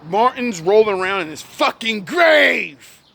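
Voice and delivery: furious, incredulous yell; outraged shout. Real, not acted. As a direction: shout it in disbelief. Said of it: "This is why I get angry".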